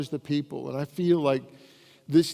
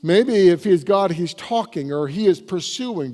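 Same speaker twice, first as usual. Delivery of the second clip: mocking; 3 semitones higher, 5 dB louder than usual. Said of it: "Elijah began to mock them".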